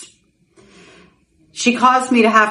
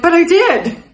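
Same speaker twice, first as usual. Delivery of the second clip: protest; 9 semitones higher, 5 dB louder than usual. Retold or imitated. Retold protest to husband.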